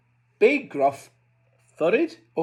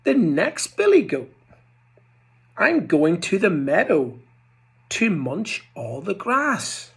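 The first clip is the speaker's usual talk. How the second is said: goat voice; 4 semitones higher, 3 dB louder than usual. Acted. Goat voice in story.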